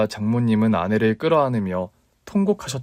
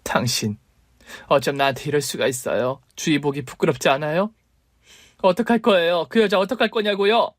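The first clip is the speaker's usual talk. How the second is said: hurt wife confronting; 4 semitones higher than usual. Acted.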